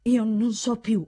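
hesitant, with long pauses between phrases; lost, halting confession; faltering stammer. A narrator's reading. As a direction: grope for the words, slowing at the end. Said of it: "balbettava Torrismondo".

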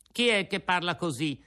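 startled question in the dark; frightened. A narrator's reading. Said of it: "sentendosi gelare dallo spavento". (un filo di paura)

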